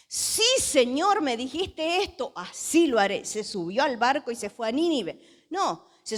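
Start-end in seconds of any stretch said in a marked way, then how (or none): 0.1-3.2 exaggerated dutiful promise, not to be believed; mock obedience. Preacher as Jonah promising God he will go, mock obedient.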